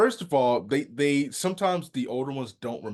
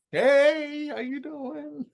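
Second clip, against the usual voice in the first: high bright mock hello; hammed-up cheerful greeting pretending to be someone else; fake cheery greeting; 4 dB louder, much slower than usual. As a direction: put on a big cheesy hello.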